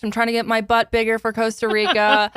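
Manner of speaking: influencer voice. Retold or imitated. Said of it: "pretending to be an influencer".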